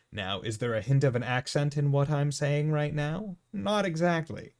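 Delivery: every syllable clearly enunciated; properly spoken. Shown as a demonstration. Showing a West Coast accent, clearly enunciated speech. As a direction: enunciate each word fully and neutrally. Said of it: "properly spoken".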